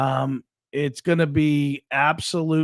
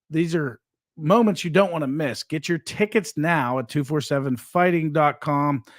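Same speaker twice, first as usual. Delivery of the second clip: ad read. Acted. Promo plug for the event.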